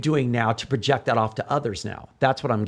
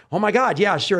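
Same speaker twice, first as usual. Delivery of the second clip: higher-pitched imitation of a thrilled yes; happy gushing; 7 semitones higher, 4 dB louder than usual. Girl asked to come out and dance, happy mock gushing. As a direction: play a delighted fan accepting. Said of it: "was so happy".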